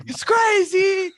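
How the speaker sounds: shouting, near tears demon; upset demon. Acted. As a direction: wail it like a panicked imp. Distressed demon reports to boss.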